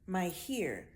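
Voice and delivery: My here with hair said as here; island accent. Shown as a demonstration. Speaker imitating island people for viewers. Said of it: "they might say here".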